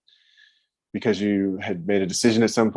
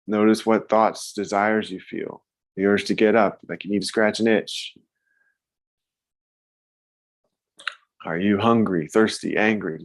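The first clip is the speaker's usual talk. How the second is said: guided meditation. Acted. Guides noticing feelings.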